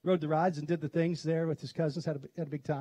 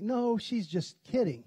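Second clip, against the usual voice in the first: husband dismissing; 5 semitones higher, slower than usual. Retold or imitated. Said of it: "Mike's like".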